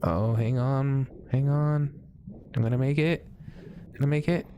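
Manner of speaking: willing yourself to reach air; tense excitement. Real, not acted. Racing to surface before drowning.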